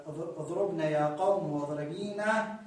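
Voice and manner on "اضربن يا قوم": اضربن with a short u, running into يا قوم; connected form, waw dropped. Shown as a demonstration. Teacher shows students the connected verb, short-vowel joined pronunciation. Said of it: "في حالة الوصل قد تحذف الواو".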